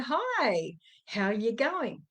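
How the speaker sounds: imitating a bright phone hello; cheerful greeting. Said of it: "Fake smile, but the words sounded".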